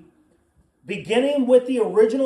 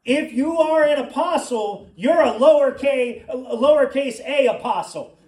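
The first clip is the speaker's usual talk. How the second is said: retold rebuke, pitched up and louder; emphatic confrontation; 4 semitones higher, 5 dB louder than usual. Preacher retelling how he confronted a college acquaintance, emphatic rebuke. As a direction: set him straight, loud and emphatic.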